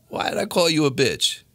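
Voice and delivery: acted-out indignant question; indignant challenge. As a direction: demand an answer, retold with heat. Retelling a challenge to bartender.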